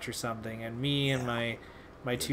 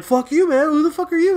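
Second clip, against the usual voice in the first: imitated furious yell, much higher and louder; angry strangers; 11 dB louder, faster than usual. Strangers in the lobby yelling back, mock furious shout. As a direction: fire it back like offended strangers. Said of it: "everyone was like".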